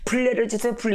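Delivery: mock prayer at an ordinary volume; imitated feeble plea. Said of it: "이러지 말고".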